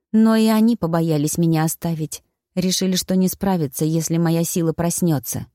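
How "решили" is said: plain reading voice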